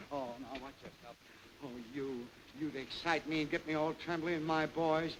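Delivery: hushed, fluttery mock fluster. General hushes his boys in mock fluster. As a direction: play at being all aflutter.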